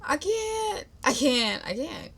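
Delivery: drawn-out, mock-tearful disbelief; holding in tears. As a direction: retell it as if holding back tears. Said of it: "literally holding in my tears".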